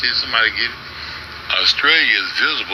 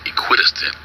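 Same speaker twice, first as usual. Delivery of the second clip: whisper; 7 semitones lower than usual. Real, not acted. Sounding out a hard word.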